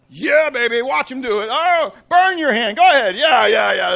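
hammed-up parent goading a child; sarcastic loud parent; mock gleeful parent. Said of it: "Mom, Dad, you get this".

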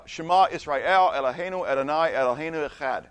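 flowing recitation of the Shema in Hebrew; Jewish Hebrew recitation. Shown as a demonstration. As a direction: recite it in Hebrew as one continuous line. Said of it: "that's how I would say it".

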